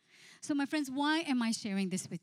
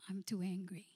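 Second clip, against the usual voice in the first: whispered confession; 6 dB quieter than usual. Retold or imitated. Groom's reply, retold.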